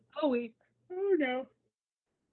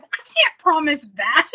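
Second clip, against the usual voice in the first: Elliot's deadpan threat; 6 semitones higher, 14 dB louder, slower than usual. Retold or imitated. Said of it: "And Elliot's like".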